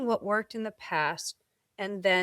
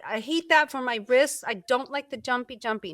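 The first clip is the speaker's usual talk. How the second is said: much higher whiny mm's then louder mock stop it; protesting body; 5 semitones higher, 3 dB louder than usual. Body refusing burpees, high whiny mock complaint. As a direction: whine and scold like a fed-up body. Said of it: "My body's like".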